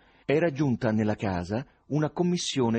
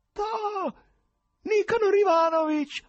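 tenore acuto e forte che urla tremolando; urlo tenorile tremolante; 6 dB louder, slower than usual. Acted. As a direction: saluta gridando con voce da tenore che trema. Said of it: "urlò l'ospite inatteso con tremolante voce tenorile". (l'ospite inatteso urla il nome del presidente, tenore tremolante)

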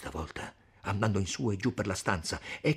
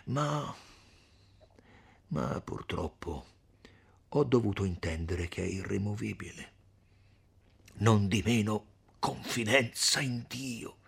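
a lightly voiced old friar, gentle and earnest; kindly friar; 3 dB louder than usual. Friar comforting Renzo and the women, gentle and earnest.

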